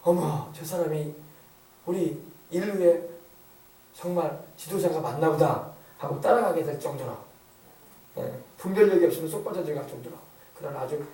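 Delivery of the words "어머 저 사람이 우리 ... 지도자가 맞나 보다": slowly voiced, understated amazement; mild awe. Crowds marvel at a supposed leader of humanity, mildly awed. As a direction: draw it out like an awestruck onlooker. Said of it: "입이 딱 벌어지면서".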